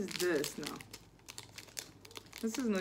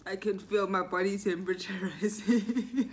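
laughing. Real, not acted. Laughing through spicy heat.

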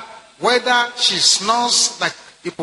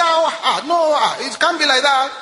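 mock protest; 4 semitones higher than usual. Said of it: "Ah, you say".

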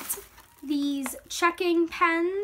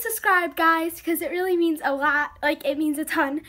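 breathless, talking between breaths; winded from talking fast; 5 dB louder than usual. Real, not acted. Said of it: "I'm out of breath".

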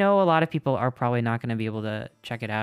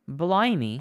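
mock British exclamation; 3 semitones higher than usual. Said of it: "why I'm becoming British".

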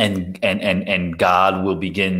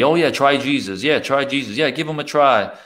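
higher, breezy pastor pitch; casual pastor; 6 semitones higher than usual. Retold or imitated. Preacher mimicking pastors pitching Jesus, breezy and higher. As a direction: imitate an offhand, upbeat recommendation. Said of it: "I used to hear a lot of pastors say".

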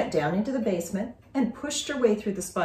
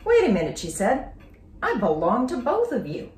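higher, louder, insistent; protesting girl; 4 semitones higher, 4 dB louder than usual. Acted. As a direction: interrupt the squabbling parents. Julie wakes and protests.

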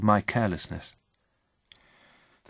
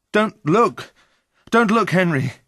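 high, loud plea not to look; panicked cry; 10 semitones higher, 5 dB louder, slower than usual. A narrator's reading. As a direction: cry out desperately to stop a friend. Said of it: "I cried".

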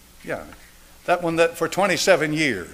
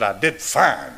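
laughing reply. Retold or imitated. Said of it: "I said".

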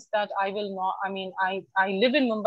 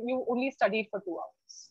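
softer, belittling "two hours"; dismissive parent; 6 dB quieter than usual. Retold or imitated. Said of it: "in another, it was like".

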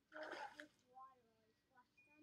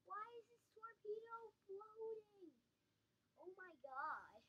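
faked panic; 5 semitones higher than usual. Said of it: "I was just faking that".

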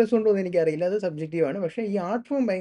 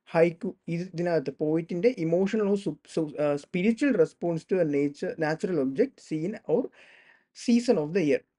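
slow dictation; much slower than usual. Shown as a demonstration. Reads definition slowly.

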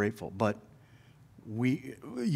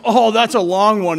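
lightly voiced old man, louder and higher; imitated older man; 8 semitones higher, 8 dB louder than usual. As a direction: groan out a mock remark after bending over. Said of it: "he says".

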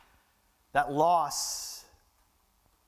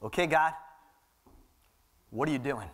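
calm trust; 4 semitones lower than usual. Retold or imitated. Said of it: "it's this".

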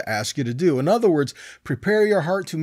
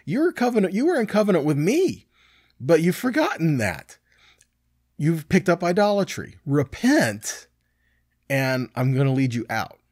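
pleading God voice; 4 semitones higher than usual. Retold or imitated. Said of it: "he says".

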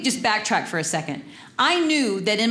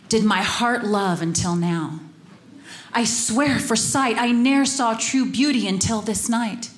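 lovestruck Romeo. Acted. Romeo to his friends, lightly voiced lovestruck recital. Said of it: "he says to his friends".

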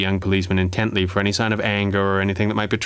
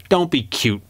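snapped; 5 semitones higher than usual. Acted. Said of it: "Parker snapped".

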